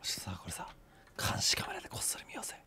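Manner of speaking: unvoiced sneaky whisper. Real, not acted. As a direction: whisper like plotting.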